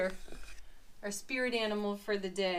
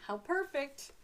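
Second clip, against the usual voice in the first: delighted; 6 semitones higher than usual. Real, not acted. Repeats with more delight.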